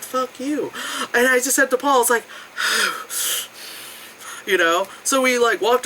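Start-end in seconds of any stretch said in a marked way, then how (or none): 0.0-0.7 1 muttered curse. Retold or imitated.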